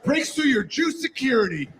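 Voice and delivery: high, laughing, shouted buildup; hammed-up buildup. Comedian building the rogue goy story to the crowd, high laughing shout.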